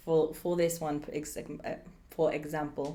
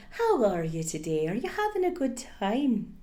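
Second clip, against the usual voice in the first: motherly Irish; 4 semitones higher than usual. Acted. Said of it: "that very motherly communication".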